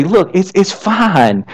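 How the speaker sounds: soft, slow comfort; reassuring. Retold or imitated. Jesus comes to tell a worried person all is well, reassuring. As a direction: lightly act a calming rescuer, easing off the volume.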